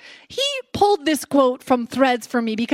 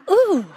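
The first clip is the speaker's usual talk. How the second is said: mock shudder; 6 semitones higher than usual.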